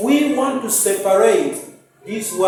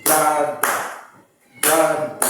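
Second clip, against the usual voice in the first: "Brother" said in beats, once per clap; child clapping out "brother"; clapping syllables; 3 semitones lower than usual. Shown as a demonstration. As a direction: chant "brother" to claps, evenly spaced. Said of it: "The child will say".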